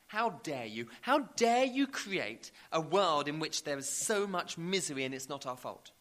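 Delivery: indignant, emphatic rebuke; acted outrage, hitting the words hard; Stephen Fry. Preacher quotes celebrity's reply to God, indignant. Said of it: "Stephen Fry's powerful and eloquent reply".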